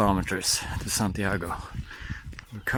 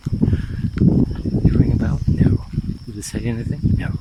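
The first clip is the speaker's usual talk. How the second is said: angry shout at a passing cyclist; angry yelling; 6 dB louder than usual. Real, not acted. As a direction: yell after the rude cyclist. Cyclist startles walker, yelling.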